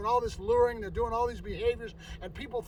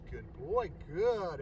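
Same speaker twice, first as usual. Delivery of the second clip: calm praise; 3 semitones lower, 3 dB quieter, slower than usual. Shown as a demonstration. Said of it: "I praise the dog with a zero".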